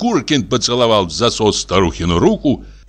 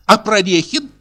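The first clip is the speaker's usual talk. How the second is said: lightly voiced aggrieved old widow, higher; a hint of an offended old lady; old matron complaining of ingratitude; old woman voice; 8 semitones higher than usual.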